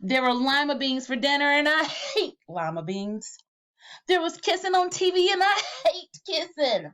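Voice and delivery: giggling through the lines; can't keep a straight face; reading while laughing. Real, not acted.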